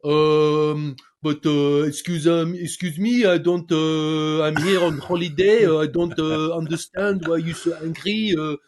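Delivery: halting, hesitant English with a put-on French accent. Shown as a demonstration. French tourist explaining to inspectors, thick French accent. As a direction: play a confused French tourist stumbling through English. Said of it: "the French accent in English".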